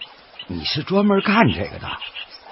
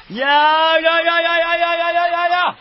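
high call fading softer; fading duck call; 12 semitones higher, 4 dB quieter than usual. Acted. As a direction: keep calling the ducks, letting it die away. Duck calling, fading away. (唤鸭声渐渐变弱)

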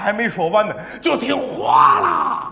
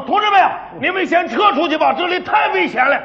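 urgent order; 4 semitones higher than usual. Retold or imitated. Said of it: "我说：".

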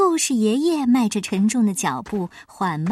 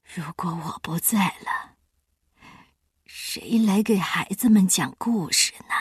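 gloomy; 2 semitones lower than usual. Acted. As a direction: wonder sadly aloud. Grandpa's gloomy thought. (悲观低声自语)

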